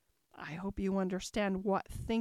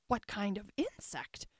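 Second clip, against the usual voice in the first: understated anxious question; a little anxious; 4 dB quieter than usual. A narrator's reading. Alice questioning the insect, a little anxiously. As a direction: ask with slight unease. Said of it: "Alice inquired a little anxiously".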